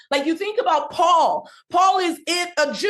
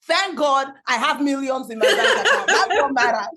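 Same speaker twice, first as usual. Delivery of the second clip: laughing. Real, not acted. Laughing off accent criticism.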